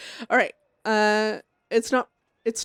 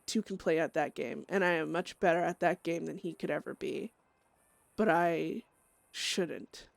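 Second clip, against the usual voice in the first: grim, brooding inner monologue; dramatic journal reading. Acted. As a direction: read it like a haunted diary entry.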